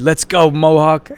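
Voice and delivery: slow, loud big man's encouragement; deep voice. Retold or imitated. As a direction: call him on like a giant coach. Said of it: "like, he said".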